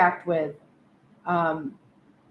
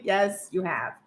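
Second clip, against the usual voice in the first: gentle reassurance; 4 semitones lower, 5 dB quieter than usual. Retold or imitated. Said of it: "And you're like".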